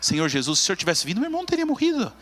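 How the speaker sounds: voz subindo aguda, em lamento sentido; lamento choroso. Shown as a demonstration. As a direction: diga como quem chora a perda, subindo no fim. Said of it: "Ela diz assim". (Maria aos pés de Jesus, lamentando chorosa)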